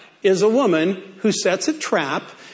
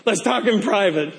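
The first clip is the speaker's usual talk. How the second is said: seductive voice. Acted. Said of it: "it's not a very sexy voice".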